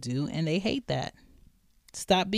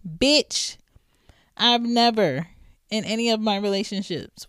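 outraged; 5 semitones higher, 4 dB louder than usual. Real, not acted. Outraged reaction to the quote.

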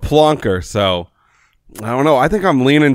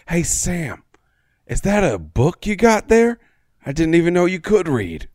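put-on Southern accent; 4 semitones higher than usual. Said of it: "doesn't have a Southern accent".

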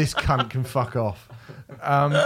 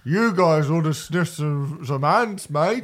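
mock Aussie Ozzy; 2 semitones higher, slower than usual. Mocking the film's Ozzy for friends, laughing Australian voice. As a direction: ham up a cartoon Australian Ozzy, slow. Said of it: "Ozzy spelled A U S S I E".

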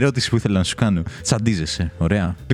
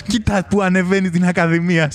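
high-pitched, fond pride; proud admiration; 8 semitones higher than usual. Retold or imitated. Bus fan admiring his bus climbing Akadimias, proud. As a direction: marvel at it like a proud parent, pitched up. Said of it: "το καμάρωνες".

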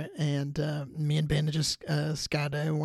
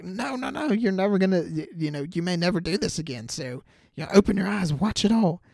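higher, louder urging himself to look; urgent self-talk; 3 semitones higher, 3 dB louder than usual. Retold or imitated. Falling skydiver urging himself to look, excited. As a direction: push yourself to open your eyes.

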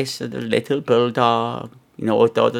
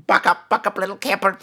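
laughing self pep talk; 5 semitones higher than usual. Acted. Self-consolation after rant.

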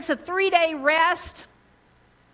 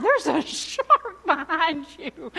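crazy calm voice; 4 semitones higher, slower than usual. Retold or imitated. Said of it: "Just in that tone".

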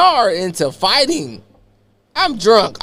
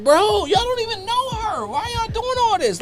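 imitating trying to be calm; 6 dB quieter than usual. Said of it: "I had to be calm".

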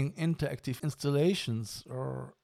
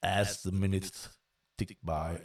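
lively storyteller narration; story narration. Acted. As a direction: narrate the tale with growing triumph.

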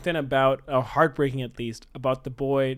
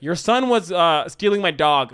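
louder, raised-pitch mock complaint; indignant dog owner; 3 semitones higher, 5 dB louder than usual. Dog owner complains to parents at the door, mock indignant. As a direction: play an accusing neighbor, lightly acted.

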